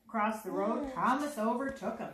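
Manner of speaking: put-on lively read-aloud to children; story narration. A narrator's reading. Reading the Thomas story aloud to children, narrating. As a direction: read the picture book out to a little one. Reads a picture book to children.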